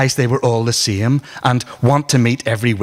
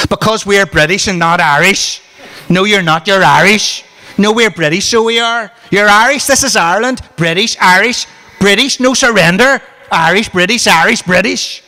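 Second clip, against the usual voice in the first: loud, high, escalating taunting yell; heated shouting match; 9 semitones higher, 5 dB louder than usual. Acted. Loyalist and nationalist teens yelling at each other. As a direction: shout it down like a playground row.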